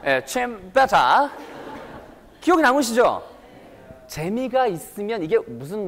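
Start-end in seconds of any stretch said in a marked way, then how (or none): 0.7-1.3 British "better", popped t, rising; playful British drill word; British accent. Shown as a demonstration. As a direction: say "better" as "betta" like a Brit. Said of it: "영국식 영어에서 T 발음은 터트려".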